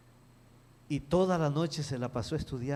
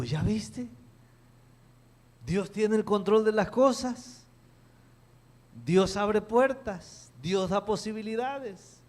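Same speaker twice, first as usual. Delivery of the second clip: preaching father; 9 semitones higher, 4 dB louder than usual. Retold or imitated. Father proclaims God's control.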